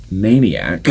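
"maniac" drawn out with heavy emphasis; stress on maniac. Real, not acted. Arguing for Andy as musician, heavy emphasis on "maniac". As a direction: lean hard on the word "maniac". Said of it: "Emphasis on maniac".

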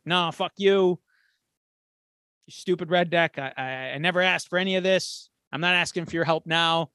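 mild mock shouting at a stubborn buddy; heated argument. Soldier angrily refusing help from his comrade, mildly voiced. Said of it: "they really get into a heated argument".

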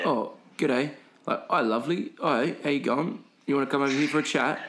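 lightly put-on English chat-up patter; a hint of a chirpy English accent, pitched slightly up; pommy charity guy. Two pommy guys inviting passers-by over for a chat, light English accent. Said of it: "they're two pommy guys".

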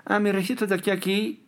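lightly imitating a singer who brags about her range; mock singer. Musician mocks singers who stay in their comfort zone, lightly imitating. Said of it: "A veces dicen".

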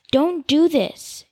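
drawn-out, slow pleading "Don't do this."; slow plea. Acted. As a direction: slowly beg her to stop. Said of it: "he told her".

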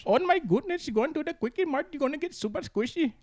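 high squeaky cartoon voice; high cartoon character voice. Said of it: "Do, do a cartoon voice for us".

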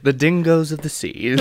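lightly voiced nature narrator; a hint of wildlife documentary; David Attenborough. Host retrying the narrator, light Attenborough impression. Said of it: "Oh, wait, I can do it".

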